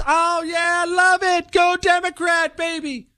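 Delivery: high, pumped-up cheer; hyped athlete fan. Retold or imitated. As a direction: cheer like a jock.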